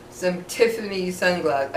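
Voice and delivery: lisping without front teeth; toothless, F sounds slurred; missing front teeth. Real, not acted. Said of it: "I can't say F without my teeth".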